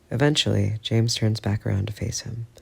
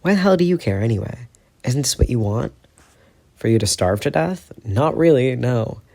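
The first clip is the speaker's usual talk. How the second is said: angry retort; 3 semitones higher, 5 dB louder than usual. Acted. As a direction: fling it back at him. Shouted quarrel.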